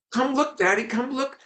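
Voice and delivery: put-on very high, eager little boy; eager child. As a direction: tug him along, eager. Boy drags father to see puzzle.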